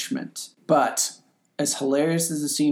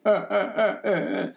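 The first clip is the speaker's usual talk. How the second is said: mock whimpering; 7 semitones higher than usual. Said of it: "laying in the fetal position on the bed".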